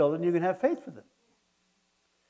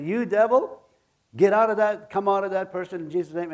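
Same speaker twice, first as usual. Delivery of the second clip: commanding rebuke; 3 semitones higher than usual. Retold or imitated. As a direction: cast the devil out with authority. Preacher casting out devil, commanding.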